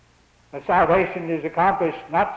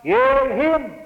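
voice from heaven; 5 semitones higher, 4 dB louder than usual. Acted. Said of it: "But here it says".

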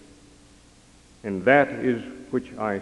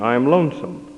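lightly voiced child; 3 semitones higher, 4 dB louder than usual. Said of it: "the cry came again".

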